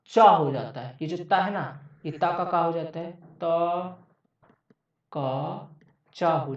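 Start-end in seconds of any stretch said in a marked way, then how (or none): none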